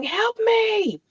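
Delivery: silent dream yell. Retold or imitated. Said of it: "you're yelling".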